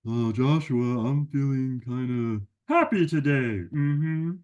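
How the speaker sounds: a cheeky friend who butts in; a hint of a goofy puppet buddy; Sammy the sidekick. Sammy shares feelings.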